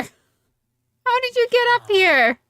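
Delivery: very high, slow, stretched-out disbelief; high, slow, incredulous squeak at a stray villager; squeaky disbelief. Real, not acted. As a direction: drag each word out up high like you can't believe it. Surprised at villager on roof.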